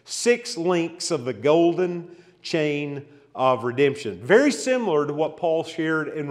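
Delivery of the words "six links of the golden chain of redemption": six links of the golden chain, spoken slowly and clearly; slow dictation for notes. Shown as a demonstration. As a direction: dictate it so they can write it down. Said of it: "If you want to take some notes".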